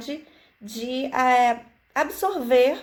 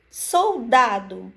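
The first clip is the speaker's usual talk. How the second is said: soldado said slowly; slow sounding out; much slower than usual. Shown as a demonstration. Teacher to children, sounding out slowly. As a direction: draw out soldado clearly. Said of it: "enfatizando cada sílaba".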